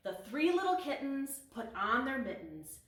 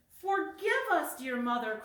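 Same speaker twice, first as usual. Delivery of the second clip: crying kitten; 7 semitones higher, 4 dB louder than usual. A narrator's reading. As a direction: beg through tears, drawing it out. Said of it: "cried Spotty".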